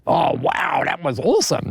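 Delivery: mock-impressed Australian bloke, lightly played; airy "wow", lifting on "awesome". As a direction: imitate an easily impressed Aussie. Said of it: "like all, all Australians would say".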